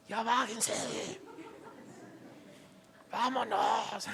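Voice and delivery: grito forzado y contenido, alargando las palabras; grito de padre imitado. Retold or imitated. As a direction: imita a un padre apurando a sus hijas. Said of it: "hasta quiero hablarles así". (grito contenido de papá impaciente)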